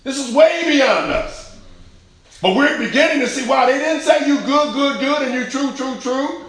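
loud, high, fervent proclamation; preacher crying out at peak intensity; full-force preaching. Real, not acted. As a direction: build to the sermon's climax.

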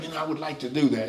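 soft, fast, polite little suggestion. Retold or imitated. Preacher voicing the flesh as a soft suggestion. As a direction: coax it gently, a mere suggestion. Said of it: "your flesh isn't just whispering".

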